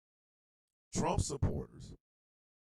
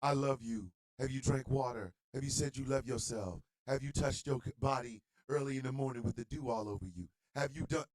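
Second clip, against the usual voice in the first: mock influencer; 4 semitones lower, 4 dB quieter than usual. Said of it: "they just".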